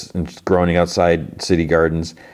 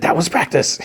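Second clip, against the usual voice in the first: high, squeaky put-on princess voice; mock-insist in a tiny high voice; squeaky princess excuse; 12 semitones higher than usual. Princess excuses failed kiss, retold.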